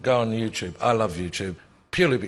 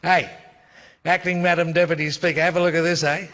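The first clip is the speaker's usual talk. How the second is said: higher and louder mocking parliamentary jeer; imitating Keating; 6 semitones higher, 3 dB louder than usual. Telling the panel how Keating taunted Downer, mocking jeer. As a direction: ham up a gloating Keating taunt. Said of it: "Keating walks out and he goes".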